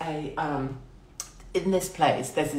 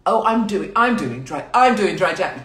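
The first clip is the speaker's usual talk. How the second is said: high, very loud show-off voice; mocking loud braggart; mock loud boasting; 4 semitones higher, 9 dB louder than usual. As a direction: brag it loudly for all to hear, hammed up. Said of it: "Do it in a really loud voice".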